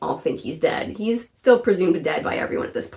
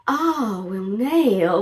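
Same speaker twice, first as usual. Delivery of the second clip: put-on southern accent; much slower than usual. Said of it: "a slight southern twang when she says".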